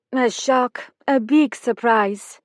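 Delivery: lightly Eastern European, slow and careful; a Bulgarian woman choosing her words; hint of a Bulgarian accent. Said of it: "Eastern European".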